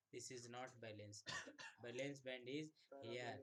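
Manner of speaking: very slow, word by word in English; slow emphatic English. Shown as a demonstration. Teacher correcting the textbook picture, very slow and deliberate. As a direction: spell it out slowly for the class.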